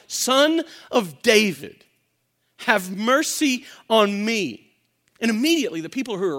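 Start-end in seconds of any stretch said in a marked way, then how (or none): 0.1-4.7 calling out. Acted. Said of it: "He calls out".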